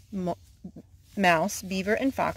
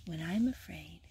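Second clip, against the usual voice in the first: whisper; 5 dB quieter than usual. Acted. Quoting a Bible verse softly.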